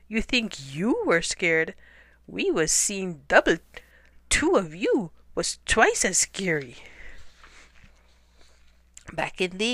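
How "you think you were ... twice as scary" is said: sidekick's hiss. Acted. Sidekicks hissing at fleeing hunter, mild. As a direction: grumble it back at the hunter. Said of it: "his sidekicks hissed".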